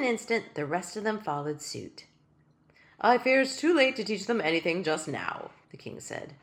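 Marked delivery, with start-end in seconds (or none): 3.0-5.5 tiny king's voice. Acted. King resigns himself.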